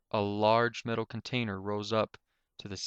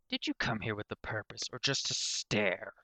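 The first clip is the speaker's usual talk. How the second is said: lightly voiced sneering professor; 3 dB quieter than usual. Irritated Synthetic to staring Soft Heart, softly mocking. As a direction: needle the visitor quietly.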